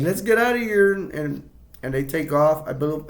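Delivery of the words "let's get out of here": higher, louder, panicked. Retold or imitated. The friends fleeing the shrieking women, mock panic. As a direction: get out fast, scared. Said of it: "they're like".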